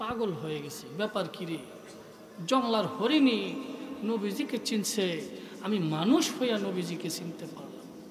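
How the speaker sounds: stunned hushed murmur.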